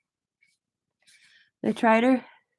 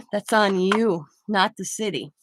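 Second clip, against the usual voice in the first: imagined telling-off; 4 dB louder than usual. Retold or imitated. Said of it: "I'd be like".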